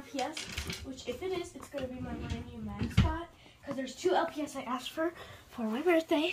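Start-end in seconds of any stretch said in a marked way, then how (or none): 5.5-6.3 whisper. Real, not acted. Excited secret about the gift.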